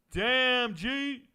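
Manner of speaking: sudden loud hype shout; excited shout. Real, not acted. Streamer hyped at a chat message, shouting. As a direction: yell out the name in surprise.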